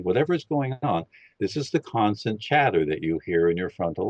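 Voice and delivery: calm, steady guiding voice for a listening exercise; guided meditation. Acted. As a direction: lead them gently into listening. Leads a meditation.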